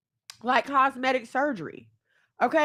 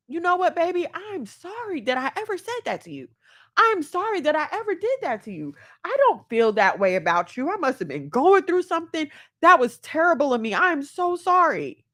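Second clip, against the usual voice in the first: tender apology; 5 semitones higher than usual. Pretend. Mother to her daughter, apologising tenderly. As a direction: comfort her daughter like she means every word. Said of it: "even if I don't remember".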